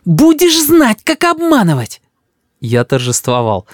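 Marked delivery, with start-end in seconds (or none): 0.0-2.0 put-on high child voice, vengeful; threatening little boy. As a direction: scold grandpa like a cross kid. Boy threatens deceiving grandfather.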